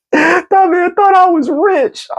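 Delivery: high and slow, laughing through it; cracking up mid-sentence; half-shouted through laughter. Real, not acted. Still laughing at the compliment.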